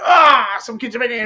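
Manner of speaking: hammed-up staff member catching kids; mock scolding shout. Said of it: "walk through and go".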